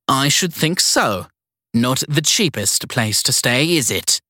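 put-on high, imperious old lady; bossy elderly matron giving orders; prissy strict schoolteacher voice. Evelyn sniffs at price.

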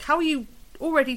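high-pitched, mock-indignant complaint; exasperated. Theatregoer silently berating noisy school groups, exasperated. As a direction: protest in disbelief, pitched well up.

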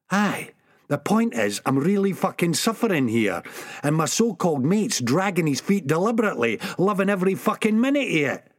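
put-on ऊँचे सुर में शिकायत करता Sick Boy; तेज़ होती, ऊँची उलाहना; Sick Boy complaining.

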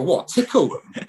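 high, slow, laughing disbelief; mock the English lads' baffled reaction; incredulous. English players baffled by the translator, laughing high and slow disbelief. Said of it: "the English side look at him and go".

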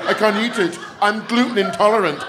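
high, fussy complaining voice; prissy put-upon whine; whiny gluten-free person. Retold or imitated. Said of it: "I hear grown people saying things like".

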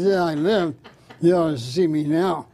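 put-on drunk man. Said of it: "I overheard two drunks talking".

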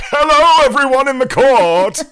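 over-the-top Tudor king entrance; Matt Berry as Henry the Eighth. Retold or imitated. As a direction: announce yourself to the court like a hammy king. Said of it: "his Henry the eighth sounds a bit like Matt Berry".

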